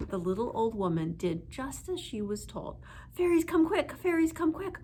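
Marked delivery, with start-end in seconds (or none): 3.1-4.8 high, loud call; shouting. A narrator's reading. Old woman calling the fairies outside.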